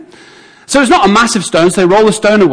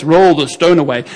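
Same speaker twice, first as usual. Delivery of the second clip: effortless command. Acted. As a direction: toss the command off without strain. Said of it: "your face would be like this".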